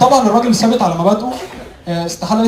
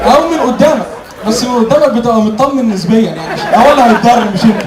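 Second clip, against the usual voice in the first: loud, rising comic rant; escalating comedy rant; 3 dB louder than usual. Acted. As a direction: build it up to the punchline. Escalating punchline in comedy bit.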